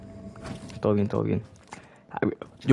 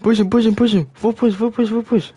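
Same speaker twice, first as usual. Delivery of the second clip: loud, higher, urgent repeated yell; excited shouting; 7 semitones higher, 5 dB louder than usual. Real, not acted. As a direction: hype the team into the push. Urging team to push enemy.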